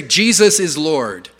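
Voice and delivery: "Lord" with a hard, stretched R; hard Canadian R. Shown as a demonstration. Showing how Canadians talk, "Lord" with stretched hard R. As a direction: hold the R in "Lord". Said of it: "we have the hard R".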